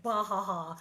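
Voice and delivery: mild mock guffaw; imitated laughter. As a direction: imitate a husband's laugh, spelt out. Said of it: "And he went".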